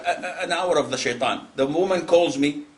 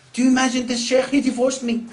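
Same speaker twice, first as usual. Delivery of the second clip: high, loud, incredulous complaint; mock outrage; 10 semitones higher, 5 dB louder than usual. Divorced wife complaining to the sheikh, mock outrage. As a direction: cry out in hammed-up indignation.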